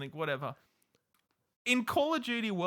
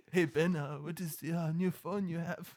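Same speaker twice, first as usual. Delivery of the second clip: put-on South African accent; 5 dB quieter than usual. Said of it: "I'm trying to do a South African accent".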